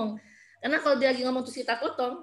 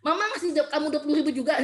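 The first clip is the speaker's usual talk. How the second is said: higher, quick defensive retort, acted; mock angry mother; 5 semitones higher, faster than usual. Shown as a demonstration. Mother taking child's allowance story personally, mock angry. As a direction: answer back like a touchy parent. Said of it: "Itu marah, nanti baperan".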